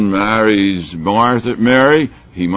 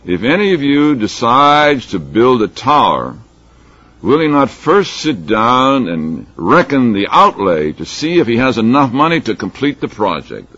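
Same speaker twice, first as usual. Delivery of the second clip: raised, measured reading of a parable; scripture reading; 4 semitones higher, 4 dB louder than usual. Acted. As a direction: read it out to a congregation, emphatically. Reads scripture aloud.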